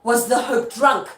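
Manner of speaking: put-on loud, slow "Was the hope drunk", each syllable a beat; "Was the hope drunk" punched syllable by syllable; four-syllable metre. Shown as a demonstration. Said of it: "She only got four".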